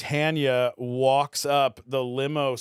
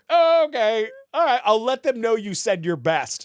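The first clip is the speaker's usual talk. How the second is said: prim assistant; 8 semitones higher, 6 dB louder than usual. Retold or imitated. Voicing assistant's reply.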